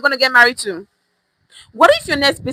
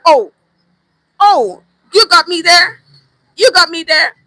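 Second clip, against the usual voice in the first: caught-out surprise; 5 semitones higher, 5 dB louder than usual. Pretend. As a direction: act like you've just been caught. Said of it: "then you think that".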